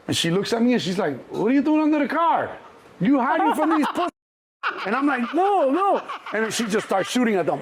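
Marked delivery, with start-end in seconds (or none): 1.3-4.1 mock your son for hiding; hammed-up mother taunting her son; scolding mom. Mom scolding son under car. 5.3-6.0 high panicked denial. Retold or imitated. Son denying, retold.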